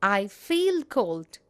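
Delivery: slow, deliberate I feel cold; slow teacher demo; slow careful correct form. Shown as a demonstration. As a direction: model it slowly for the class. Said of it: "Correct usage".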